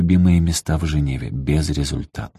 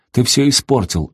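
higher-pitched narrated yell; 7 semitones higher than usual. A narrator's reading. Lev yells at his father, a raised mock yell. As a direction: cry out the blame, voice up high. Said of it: "орал Лев".

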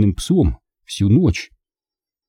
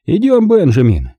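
loud, raised call to come along; decisive order, pitched up; commanding; 8 semitones higher, 5 dB louder than usual. A narrator's reading. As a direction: summon the boy briskly and loudly. Uncle summons the boy to leave.

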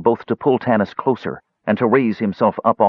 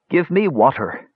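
put-on high, insistent old wizard; demanding mage; 8 semitones higher than usual. A narrator's reading. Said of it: "demanded the mage".

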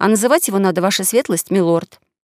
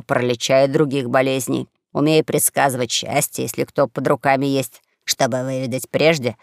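lightly voiced old quack, lower than the narration; bald old swindler; 6 semitones lower than usual. Bald swindler telling a possible partner his trades, low character voice. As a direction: list the trades low and matter-of-fact.

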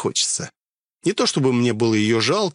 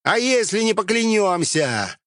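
gruff bandit voice; 9 semitones higher than usual. Acted. Character voice in dialogue.

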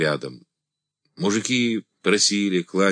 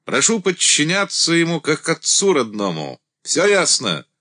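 commanding; 7 semitones higher than usual. A narrator's reading. Commander addressing regiment.

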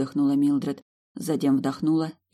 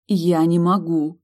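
high, loud desperate plea, slow; pleading in despair, slowly; desperate whisper; 4 semitones higher, 6 dB louder, slower than usual. A narrator's reading. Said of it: "с отчаянием в голосе прошептала девушка".

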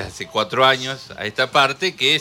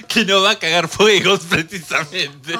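loud, higher, words squeezed through laughter; laughing; 4 semitones higher, 4 dB louder than usual. Real, not acted. Host joking that she is alive but suffering, laughing. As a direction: push the line out while laughing hard. Cracking up while finishing crude joke.

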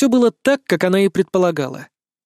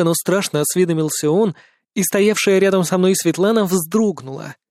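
usual speaking voice

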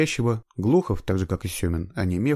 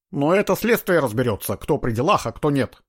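sharp retort; 6 semitones higher, 4 dB louder than usual. A narrator's reading. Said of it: "резко отрезал Глухов".

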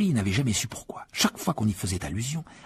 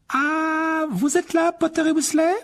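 much higher, crisp stern teacher; McGonagall; 4 dB louder, slower than usual. A narrator's reading. McGonagall catching the boys in the hall, stern and high. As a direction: address them like a strict professor.

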